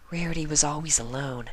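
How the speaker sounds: a shy pony recounting sad news. Acted. Fluttershy soft telling.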